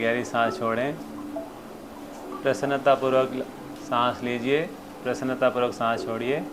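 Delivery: soft, calm breathing guidance; guided meditation. Real, not acted.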